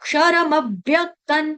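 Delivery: slow syllable-by-syllable Sanskrit; broken up slowly. Shown as a demonstration. Teacher teaching students to read, slow broken-up recitation. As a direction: stretch and separate each syllable. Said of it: "तोड़ तोड़ के पढ़ना".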